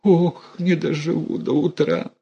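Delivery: high groaning lament; a hint of a dying wail. A narrator's reading. Mother moaning. (высокое стенание старухи)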